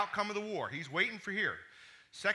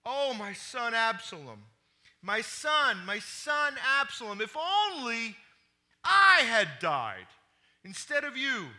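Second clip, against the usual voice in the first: lament; 4 semitones higher, 6 dB louder than usual. Acted. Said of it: "he cried".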